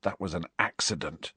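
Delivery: low, hushed misery; very soft and miserable; miserable whisper. Acted. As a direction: whisper a wretched confession. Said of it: "he whispered miserably".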